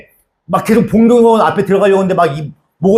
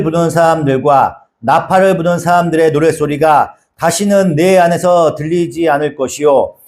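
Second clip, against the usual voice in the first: scripture reading. Acted. Pastor reading scripture to the congregation, measured. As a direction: read the verses with gravity. Reads Revelation passage aloud.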